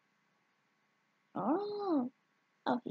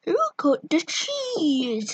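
crying. Acted. Crying slow line.

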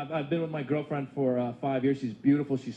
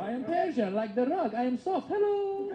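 mock seductive rug; 6 semitones higher, slower than usual. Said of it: "We're always like".

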